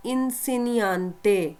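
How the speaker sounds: इंसेनियांते said slowly, every syllable clear; slow careful model of इंसेनियांते; teacher spelling out इंसेनियांते for the class; model pronunciation. Shown as a demonstration. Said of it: "teacher को क्या कहते हैं".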